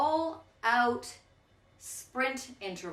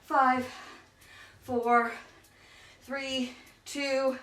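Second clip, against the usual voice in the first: calling countdown; 2 semitones higher, much slower than usual. Real, not acted. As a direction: shout the count over the effort. Countdown called during sprint.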